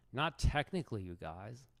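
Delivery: lightly voiced indignant streamer; hint of a riled-up rival; Hikaru impression. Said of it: "I believe I'm supposed to be Hikaru".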